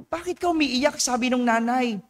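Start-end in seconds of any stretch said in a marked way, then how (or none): 0.0-1.0 high, softer concerned mother's question; a mother gently asking her child why he cries, high and hushed; worried mother. Retold or imitated. Priest repeating the mother's question to her crying son, high and soft.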